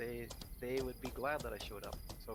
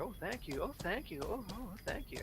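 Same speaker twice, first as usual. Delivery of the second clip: mock effusive thanks; 7 semitones higher than usual.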